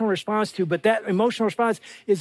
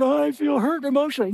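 mock hurt husband; 5 semitones higher than usual. Mock husband voicing tearful feelings.

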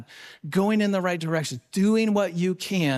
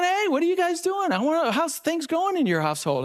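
put-on high, bright surprised hello to old friends; light up at spotting the couple; excited greeting; 8 semitones higher than usual. Speaker greeting a couple he spots in the crowd, excited.

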